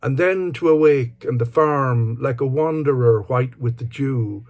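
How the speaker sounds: measured, lilting poetry reading; poem recitation. Acted. Speaker reads a favourite Dylan Thomas poem aloud, measured recitation. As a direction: recite it in sustained phrases, pausing between lines.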